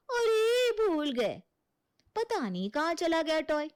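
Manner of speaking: mock aunt excuse. Aunt mocks the bua's pretend excuse to the boy. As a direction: mimic the aunt's fake innocence. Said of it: "कह रही थी".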